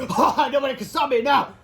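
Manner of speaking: high, loud laughing gloat; gloating villain. Acted. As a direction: crow with evil glee.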